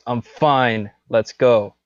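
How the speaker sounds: snapping, rising to a loud final go; mad. Acted. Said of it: "he's super mad now".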